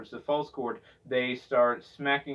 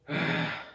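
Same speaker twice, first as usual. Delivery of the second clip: growled sigh. Shown as a demonstration. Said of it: "I'll run through it one more time".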